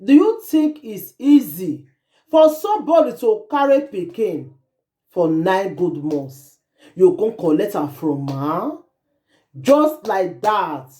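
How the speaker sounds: slow, gently pleading retelling of the mother; a touch of her sorrow, slowed; mild retelling of crying. Retold or imitated. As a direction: read her words slowly as a mild echo of her tears. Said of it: "The girl dey cry. Say".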